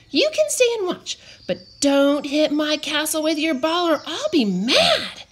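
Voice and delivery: put-on high, sweet little girl voice; girly high voice. A narrator's reading. Cupcake character voice.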